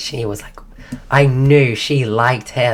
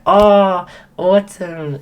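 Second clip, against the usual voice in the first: high, drawn "oh!" of getting it; acted dawning recognition, pitched up; corrected realisation; 6 semitones higher, 6 dB louder, much slower than usual. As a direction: imitate someone finally remembering, louder. Acquaintance corrected on the name.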